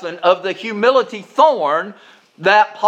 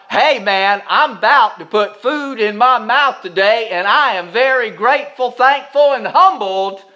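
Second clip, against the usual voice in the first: grateful prayer; 4 semitones higher, 3 dB louder than usual. Retold or imitated. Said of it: "to say to God".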